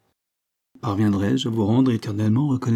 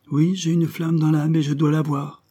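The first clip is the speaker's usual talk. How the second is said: righteous anger; 7 semitones higher than usual. A narrator's reading. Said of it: "avec une juste colère".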